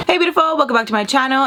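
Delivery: high, cheerful hello; bright greeting. Real, not acted. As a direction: greet the viewers sweetly. Channel intro greeting.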